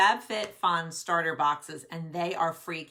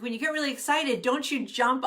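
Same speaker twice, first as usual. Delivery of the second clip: imitating husband; 7 semitones higher than usual. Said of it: "he's like".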